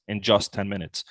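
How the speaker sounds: "in just ten minutes" slowed and set apart; slowed-down key words. Shown as a demonstration. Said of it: "I slow down the words".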